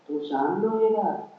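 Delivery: low, soft-voiced advice; confidential instructing. Husband telling wife how to refuse, hushed. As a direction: coach them quietly in private.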